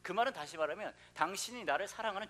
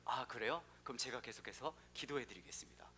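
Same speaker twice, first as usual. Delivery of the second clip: quiet, lower pastoral reply; soft pastor; 6 semitones lower, 7 dB quieter than usual. Retold or imitated. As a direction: say it gently, a little lower. Pastor quoted in joke. (조용하고 낮은 목사님 말투)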